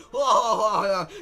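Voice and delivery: loud drawn-out mock cheer; cheering Mexicans. Mexicans celebrating Ignacio's win, loud hammed-up whoop. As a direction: whoop it like a crowd. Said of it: "So the Mexicans are like".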